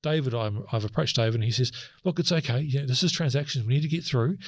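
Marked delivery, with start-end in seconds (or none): 2.0-4.4 higher-pitched imitation of someone brushing off concerns; mock reassurance. Retelling a colleague waving away worries about the accounts, mock reassuring. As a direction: retell a colleague's breezy don't-worry patter, pitched up.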